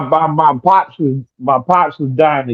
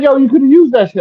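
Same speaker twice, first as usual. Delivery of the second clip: high-pitched mimicked dad protest; exasperated father imitation, very high; dying father; 9 semitones higher, 4 dB louder than usual. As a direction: plead it as Dad, voice pushed way up. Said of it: "He's like".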